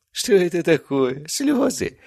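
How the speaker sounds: slow, high, mock surprise; mocking villain. A narrator's reading. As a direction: sneer at his tears. Villain mocks tears. (издевательски, медленно)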